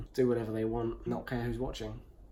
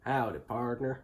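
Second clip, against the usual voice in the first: hammed-up American cowboy greeting; American accent impression. Shown as a demonstration. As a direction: put on a cheesy American accent. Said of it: "give us your best impression".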